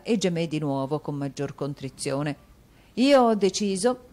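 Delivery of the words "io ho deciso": higher, louder wife's resolve; Madame Mantalini, firm. A narrator's reading. Wife announcing her decision, firm. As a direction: lay down the law to her husband. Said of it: "disse madama Mantalini".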